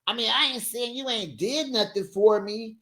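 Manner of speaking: lightly voiced cocky boyfriend; a touch of swagger. Julius answering his girlfriend, lightly voiced and cocky. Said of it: "He was like".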